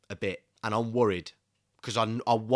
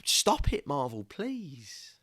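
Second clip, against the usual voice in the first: exasperated plea; 4 semitones higher, slower than usual. Real, not acted. Pleads with Marvel.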